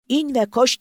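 very high, loud urgent order; yelled. A narrator's reading. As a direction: bark it out to get her running. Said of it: "diye haykırdı Sentene".

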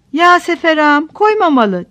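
a mother's grieving moan, lightly acted; a touch of a wailing moan. A narrator's reading. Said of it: "diye inledi".

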